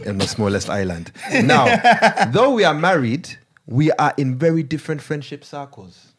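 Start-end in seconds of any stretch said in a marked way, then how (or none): 1.4-6.1 put-on Ugandan accent. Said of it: "I'm gonna read it in Ugandan accent".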